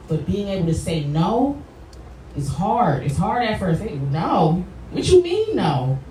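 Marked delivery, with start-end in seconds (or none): 3.9-6.0 mock indignation. Acts out refusing and being challenged.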